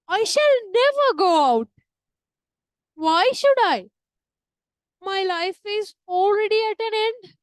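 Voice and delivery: theatrical grieving widow, declaimed to the back row; overacted stage crying. Shown as a demonstration. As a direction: ham it up like a stage widow in mourning. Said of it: "And she is crying like this".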